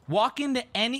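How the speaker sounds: lightly imitated Chinese-accented driver. Driver advising the passengers, imitated Chinese accent. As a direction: start the advice in a Chinese accent. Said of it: "keep in mind, heavy Chinese accent".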